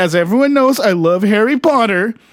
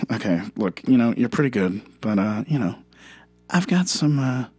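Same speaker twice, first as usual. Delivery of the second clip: deep Herzog impression; 5 semitones lower, 4 dB quieter, faster than usual. Deep Herzog voice while mocking the claim. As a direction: sound like a solemn German director.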